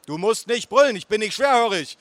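high-pitched retort; yelling back. Acted. Nephew in shouting match with aunt, yelling. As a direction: fire it back at full voice.

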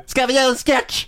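high, hammed-up holler; mock calling out. Friend imitates co-host calling to the star, hollering high. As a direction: call it up to a window in a silly high voice. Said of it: "Och så ropar du".

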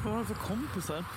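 breathy unvoiced whisper; whispered aside. Real, not acted. Co-host whispers her shock about the friends. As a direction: hush it like a secret remark.

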